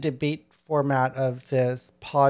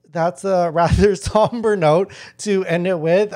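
nervous laugh; 3 dB louder than usual. Real, not acted. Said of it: "I know I'm laughing because I have a nervous laugh".

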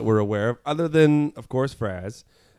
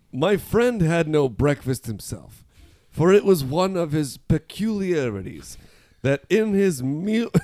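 a touch of Victorian storyteller, lightly read; old-timey reading; 3 semitones higher than usual. Shown as a demonstration. Reading an 1903 sentence aloud to friends, lightly old-timey. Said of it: "This is a sentence from nineteen oh three".

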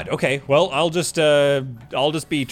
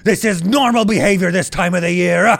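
unhinged shouting. Acted. Unhinged Santa insists he's sane.

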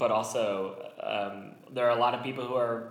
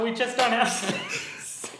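mock apologetic; 12 semitones higher, 4 dB louder, slower than usual. Mock turning comedians away.

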